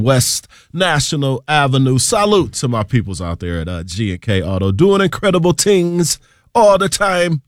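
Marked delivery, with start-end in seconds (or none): 2.0-7.4 DJ slipping into a hint of Jamaican patois; playful Jamaican accent. DJ shouting out the sponsor in a mock Jamaican accent. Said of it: "I don't know where that accent came from".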